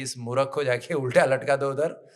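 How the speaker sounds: firm, mildly angry royal order; angry king. Retold or imitated. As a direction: give a stern command as an offended king. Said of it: "राजा को इतना गुस्सा आया".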